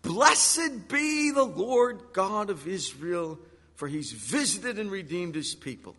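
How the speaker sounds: slow, drawn-out proclamation; solemn declaration of praise; prophetic praise. Acted. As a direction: proclaim it in praise, stretching the opening words. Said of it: "filled with the Holy Spirit and prophesied".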